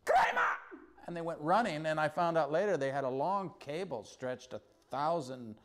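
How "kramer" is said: high, loud excited yell of a name; excited shout. Retold or imitated. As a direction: call the name out in delight. Villagers recognizing him, calling out.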